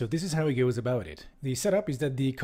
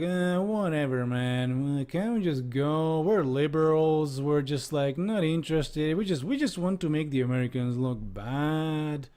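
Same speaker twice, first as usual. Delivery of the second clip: mocking news crews; 2 semitones higher than usual. Host mimics CNN crews who can't be bothered, whiny mockery. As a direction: put on a whiny, uninterested slacker voice. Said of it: "all these C N N crews are like".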